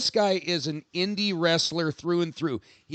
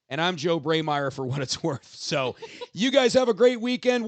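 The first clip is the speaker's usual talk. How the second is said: laughing. Real, not acted. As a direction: sign off through a laugh. Laughing sign-off.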